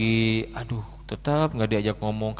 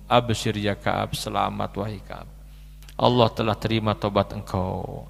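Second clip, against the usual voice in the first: gentle greeting; 5 semitones lower than usual. Acted. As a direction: smile as you welcome him back. Smiling companions greet Ka'ab.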